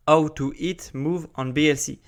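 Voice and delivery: English title read with a French accent; accent français en anglais. Real, not acted. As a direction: say the English words like a French speaker. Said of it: "pardonnez-moi pour mon accent". (anglais prononcé avec l'accent français)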